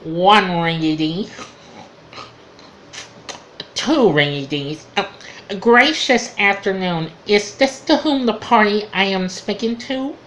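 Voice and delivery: lightly voiced nasal-free telephone operator; a hint of the prim phone operator; mock-polite switchboard operator; Ernestine the operator. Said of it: "this Ernestine, this operator".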